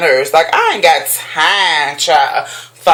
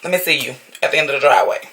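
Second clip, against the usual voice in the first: mock threat; 4 semitones lower, 4 dB quieter, much faster than usual. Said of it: "I'ma knock on their door".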